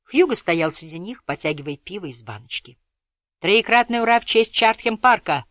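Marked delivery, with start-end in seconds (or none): 3.4-5.4 loud rousing cheer; shouting. A narrator's reading. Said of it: "крикнул Молдхаус".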